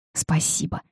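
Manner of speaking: soft, unvoiced-breath whisper of thanks. A narrator's reading. Heroine thanks Archibald for his help in court, whispering. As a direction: whisper it, barely above a breath. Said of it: "прошептала я".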